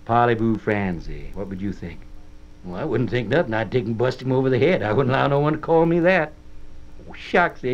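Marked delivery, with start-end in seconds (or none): 0.0-1.3 slow, careful French phrase in a mock French accent. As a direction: sound it out like a Frenchman, slowly. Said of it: "Suppose a man's to come up to you and say".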